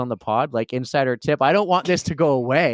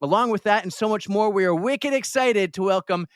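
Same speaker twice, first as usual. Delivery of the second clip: upbeat scripted guest introduction; podcast host intro; 2 semitones higher than usual. Acted. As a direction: read it like a show host.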